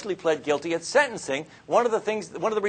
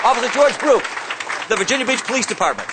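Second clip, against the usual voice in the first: announcer introduction; 6 semitones higher, 6 dB louder than usual. Real, not acted. Introducing the guest speaker.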